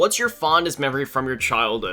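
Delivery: ordinary talk, nothing marked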